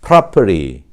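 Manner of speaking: American "property" as "prah-per-ee", T flapped; American model word "property"; American pronunciation. Shown as a demonstration. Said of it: "미국식으로 발음하면 어떻게 될까요?".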